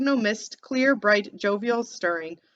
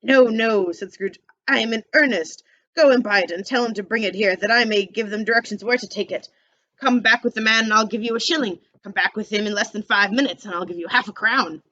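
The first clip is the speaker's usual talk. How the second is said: put-on old Scrooge, loud and earnest; eager Scrooge; 4 dB louder than usual. Scrooge sending the boy to buy the turkey. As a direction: urge the boy on.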